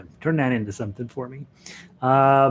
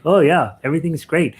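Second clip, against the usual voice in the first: high, loud forced-bright reassurance; hammed-up falsely cheerful brush-off; fake cheerfulness; 5 semitones higher, 8 dB louder than usual. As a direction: pretend all is fine, a bit too brightly. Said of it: "pretending to be".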